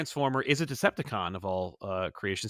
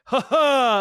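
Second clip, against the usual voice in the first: high, loud villain laugh; Shockwave; 11 semitones higher, 9 dB louder than usual. Acted. Shockwave up on a hill, mock villain laugh. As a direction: crow it out like a triumphant cartoon villain. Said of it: "Shockwave going like".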